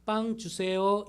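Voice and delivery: slow, deliberate polite request; modelling the polite form; polite model phrase. Shown as a demonstration. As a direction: say it slowly for the child to copy. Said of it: "다시 말해봐".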